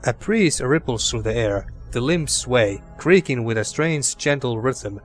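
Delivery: calm storybook narration; story narration. Acted. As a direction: read it like a fantasy narrator. Reads game narration aloud.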